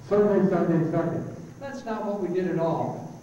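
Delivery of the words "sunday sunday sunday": Sunday repeated fading like an echo; echo demo. Shown as a demonstration. Demoing an echo on stage, fading repeats. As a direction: let each Sunday die away like an echo. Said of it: "This is sort of what an echo sounds like".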